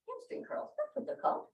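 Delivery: breathy whisper, half to herself; whispered self-correction under the breath; whispered aside. Real, not acted.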